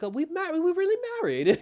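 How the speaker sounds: high, loud, laughing disbelief; hammed-up astonishment breaking into a laugh; mock amazement. Man finds out he is married to her, mock amazement.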